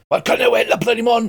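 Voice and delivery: mock very high, barking, shrill sergeant-major parade-ground yell. Retelling a story, the speaker voices a man answering a sergeant: imitating a shouting sergeant major. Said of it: "he starts shouting in the best Sergeant Major voice".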